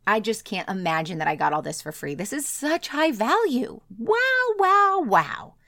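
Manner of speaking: a prospect overwhelmed with delight, gushing and squealing wow; amazed gushing. Pretend. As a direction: gush like someone blown away by a gift. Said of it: "take all of your free stuff and go".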